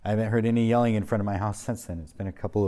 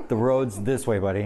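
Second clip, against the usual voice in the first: put-on chuckling through a friendly jab at the drunk; amused, laughing as he points the way; 5 dB louder than usual. To the drunk neighbor stuck in blackberry bushes, laughing.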